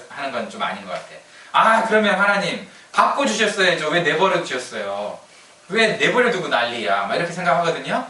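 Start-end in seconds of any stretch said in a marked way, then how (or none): 1.5-7.0 protesting, raised start with drawn-out words; mock complaint. People blaming God for leaving them be, mildly indignant complaint. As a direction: complain as if wronged, stretching the question.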